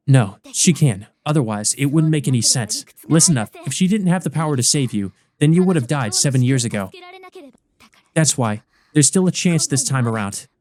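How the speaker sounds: lightly voiced girl, insistent; firm senpai. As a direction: convince him there is hope.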